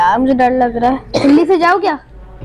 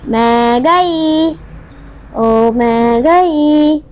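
drawn-out scared wail; much slower than usual. Real, not acted. Scared in horror game.

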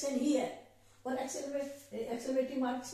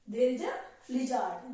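mock fright; 4 dB louder, much slower than usual. Shown as a demonstration. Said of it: "जो भी कहना चाहे आप".

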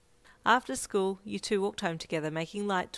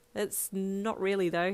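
slightly sad; 2 semitones higher, slower than usual. Acted. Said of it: "he replied slightly sadly".

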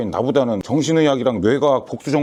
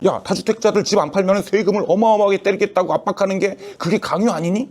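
ordinary talk, nothing marked

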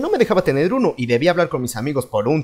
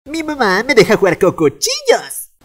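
put-on slow, higher boastful kid, a bit louder; bragging kid voice; 4 semitones higher, 3 dB louder, slower than usual. Kid brags to friends about his permissive mom, in a slow boastful voice. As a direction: show off like a proud little kid.

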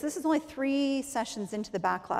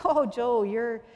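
patients correcting each other; 7 dB louder than usual. Retold or imitated. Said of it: "patients that are answering back".

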